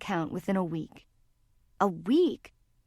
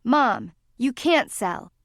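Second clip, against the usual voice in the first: louder, slow pleading outburst; loud protest; 3 semitones higher, 5 dB louder, slower than usual. Acted. Daughter begging her mother not to sell, loud and slow. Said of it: "Laurel's voice was loud and high-pitched".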